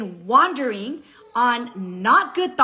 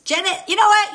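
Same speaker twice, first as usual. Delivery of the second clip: higher, louder excited call; 8 semitones higher, 6 dB louder, faster than usual. Real, not acted. Calling to a friend about a great idea, excited call. Calls out to Janet mid-talk.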